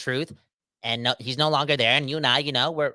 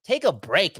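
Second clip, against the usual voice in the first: calling out; 6 semitones higher than usual. Real, not acted. Calling out reporter playfully.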